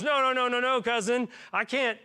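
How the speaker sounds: high, insistent no, then slowing; urgent refusal that slows into awe; John refusing to baptize Jesus, high insistent protest. Acted. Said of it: "and John goes".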